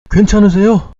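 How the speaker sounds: high, loud urgent call; urgent, alarmed. Acted. Panicked driver checking on the man ahead, urgent high shout. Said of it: "다급하게 먼저 말했다고".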